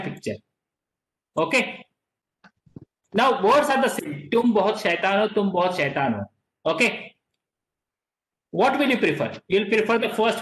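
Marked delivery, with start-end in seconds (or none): 4.3-5.3 affectionate teasing with a lifted ending; talking nicely. Shown as a demonstration. Teacher voicing first picture, nice tone. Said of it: "she is talking very nicely". 5.4-6.2 mildly harsh, lower with a falling end; harsh scolding. Shown as a demonstration. Teacher voicing second picture, harsh tone. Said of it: "harsh voice".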